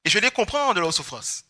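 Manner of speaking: ordinary talk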